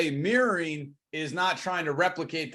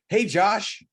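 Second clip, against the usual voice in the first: punched-up hello, a bit higher and louder; familiar greeting, then pause; 4 semitones higher, 5 dB louder than usual. Shown as a demonstration. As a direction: greet an old friend, then leave it hanging. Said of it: "and you pause right there".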